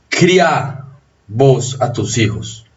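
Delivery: "Cría" said as criá, stressed on the open A; stress on final A. Shown as a demonstration. Teacher demonstrates the vos command, stress on the final A of "Cría". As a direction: land "Cría" on its last vowel, voseo style. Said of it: "el acento está en la abierta".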